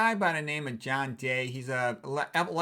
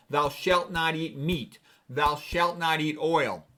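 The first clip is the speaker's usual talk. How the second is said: mock commandment; 3 dB louder, slower than usual.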